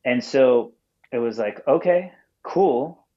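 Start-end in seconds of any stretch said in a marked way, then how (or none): 1.7-3.0 high, slow put-on okay; a hammed-up, drawn-out okay cool; mock surprised okay. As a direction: stretch it out high like a pleasant shock. A band's request met with mock delight.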